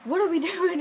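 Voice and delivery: half-laughing panic from the back seat; cousin freaking out. Retold or imitated. Cousin in the back seat as the car goes off-road, alarmed laughing cry. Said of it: "he starts freaking out".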